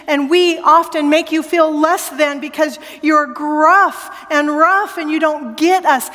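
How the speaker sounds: rising preacher's call to hear God; preaching. Acted. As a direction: proclaim it to the congregation. Preaching climax.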